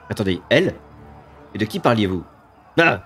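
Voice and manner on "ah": scornful monster voice; contemptuous demon. Acted. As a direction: belittle the fools.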